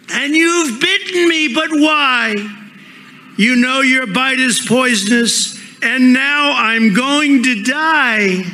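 high, shocked cry of betrayal; bitten woman's dismay. Acted. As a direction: plead with the snake in disbelief.

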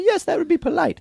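mock British woman correcting a sneeze; imitating British woman. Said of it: "She's like".

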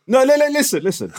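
mock-stern cut-in; insistent interruption. Real, not acted. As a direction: demand he listen. Cutting off co-host in argument.

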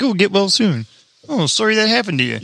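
lightly put-on Canadian politeness; mock Canadian accent. Canadian driver to an injured deer, mock Canadian sympathy. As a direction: apologise with a hint of Canadian lilt. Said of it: "Canadian drivers be like".

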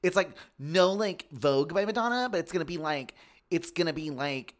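lightly voiced eager pitch; a hint of a breathless hype man; gushing club owner. Acting out the gay club pitch.

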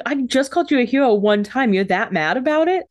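mock indignant protest. Henry complaining to Damon after the grenade, mock aggrieved. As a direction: start high, play the wronged friend.

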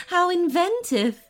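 high, amused little laugh first; interested. A narrator's reading. Unicorn hears of winged unicorns, amused and interested. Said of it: "sounding interested".

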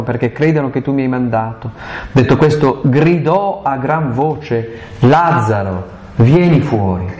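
measured, solemn scripture reading; Gospel reading. Acted. Priest reading the Lazarus passage to the congregation, solemn.

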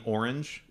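"orange" starting with or; standard pronunciation. Retold or imitated. Imitating people querying his accent, "orange" said OR-inj. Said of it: "if I say orange, people are like".

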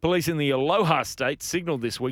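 measured newsreader delivery; news read. Real, not acted. Host reads the next story to co-hosts, in news-reader style.

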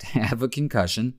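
stifled laughter. Real, not acted. Podcast host reporting a player's injury, laughing despite himself. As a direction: say it through a suppressed laugh. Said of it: "I don't know why I'm laughing".

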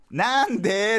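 put-on high, stretched-out child's "why?"; imitated curious child. Daughter interrupting dad's routine, high drawn-out question. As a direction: pipe up like a kid interrupting.

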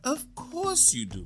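whispered. Acted. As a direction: hush him like a sly wife. Wife soothes the devil.

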